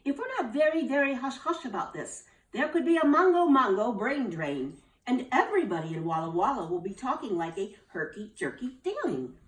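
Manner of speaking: urgent warning. Acted. Nurse Carter warns them all, urgent. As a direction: spell out the danger.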